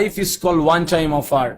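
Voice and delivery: very slow, each word laid out; slow quoted saying. Shown as a demonstration. Speaker quotes a saying to the audience, very slow. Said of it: "এই জন্য বলা হয়".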